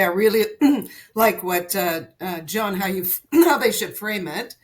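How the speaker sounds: talking through a throat tickle; frog in throat. Real, not acted. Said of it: "I've got a tickle in my throat".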